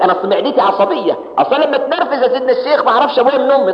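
mock excuse. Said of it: "يقول لك".

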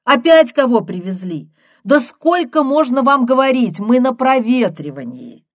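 loud exasperated yelling; fed-up shout at the door. Acted. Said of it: "крикнула она".

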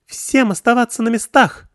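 high, loud ringing order; shrill young girl commanding everyone to freeze. A narrator's reading. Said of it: "звонким голосом распорядилась девушка".

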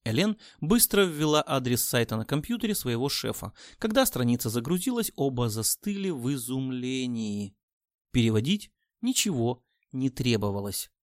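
ordinary delivery

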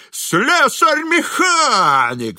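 high, loud, slow yelled jeer; shrieking insult. A narrator's reading. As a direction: fling the title at him as an insult. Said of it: "вскрикивал дворник".

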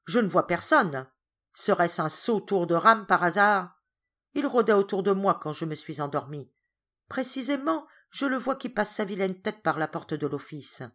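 loud, irritated complaint; angry grumble. Acted. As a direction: grumble it loudly. Georges angry after prank.

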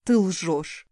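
husky voice holding back tears; hoarse, swallowing back tears. A narrator's reading. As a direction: choke it out through a tight throat. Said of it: "сиплым голосом сказала".

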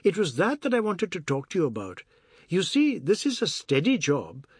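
brisk Biswas. Acted. Biswas explains about his job.

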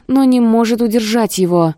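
plain reading voice

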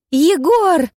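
high, loud cry for help; desperate call. A narrator's reading. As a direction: scream his name across the thicket. Heroine calls for help. (отчаянно, высоко и громко зовёт Егора)

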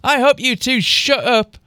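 mild high-pitched snap; snapped. A narrator's reading. Teacher cutting off bickering students, mildly snapped. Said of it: "Missus Vane snapped".

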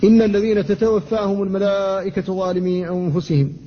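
measured recital with تتوفاهم kept tense; Quran recitation. Shown as a demonstration. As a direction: recite it, both ta in تتوفاهم firm. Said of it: "فلا بد من الحفاظ على شدتها". (تلاوة مجودة)

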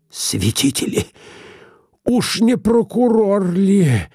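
ordinary delivery, nothing marked

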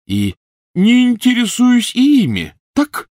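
very high, loud bitter tirade; furious rant. A narrator's reading. Ron raging at Harry about his family, loud fury. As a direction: scream your grievance.

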